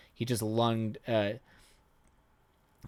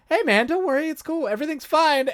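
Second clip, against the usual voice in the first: much higher, breezy mock reassurance; laid-back vampire shrugging off the gore; chill vampire; 4 dB louder than usual. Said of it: "being like".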